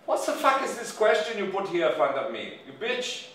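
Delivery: furious boss, loud and high; angry yelling. Acted. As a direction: chew out the assistant, then explode. Boss berates and fires assistant.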